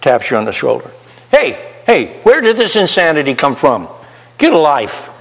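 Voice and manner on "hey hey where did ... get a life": little voice piping up. Retold or imitated. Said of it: "the little voice pipes up".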